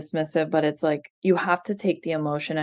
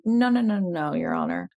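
mock objection; 2 semitones higher than usual. Mother mimics ex protesting to the judge, mock objection. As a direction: imitate a smooth protest to the judge.

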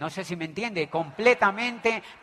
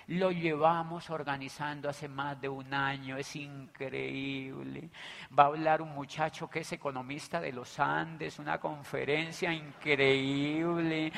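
soft persuasive pitch; 4 semitones lower, 4 dB quieter than usual. Retold or imitated. Coaxing a tired prospect.

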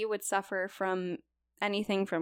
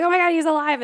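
higher and louder mock shout of shock; imitating a stunned diver's yell, higher and louder; retold freak-out; 9 semitones higher, 13 dB louder, faster than usual. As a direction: imitate the diver losing it, high and loud. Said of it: "mini freak attack, like, freak out".

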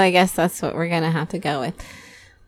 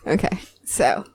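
whispering; 4 dB quieter than usual. Real, not acted. Host lowers voice for intros.

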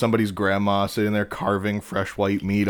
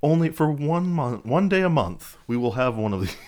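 higher, louder mock announcer; 6 semitones higher, 4 dB louder than usual. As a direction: read it like an emergency broadcast.

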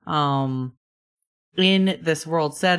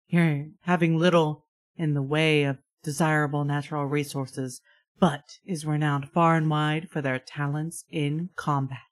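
measured, slightly hushed scene setting; game master's narration; 2 semitones lower than usual. Acted. Game master giving players war background, measured narration. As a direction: read the war lore out with deliberate pauses.

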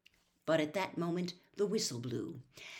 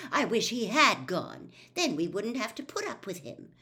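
a touch of anger; 5 semitones higher, 5 dB louder than usual. Acted. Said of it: "she said angrily".

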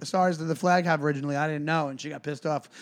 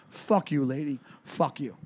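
low, dismissive retold kiss-off; understated, soft contempt; so done; 4 semitones lower, 3 dB quieter, slower than usual. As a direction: mutter it, finished with her. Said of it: "I was so done with it".

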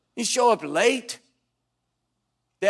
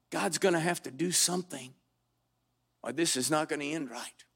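hushed desperate plea; 3 semitones lower, 6 dB quieter than usual. Retold or imitated. Desperate prayer in depression.

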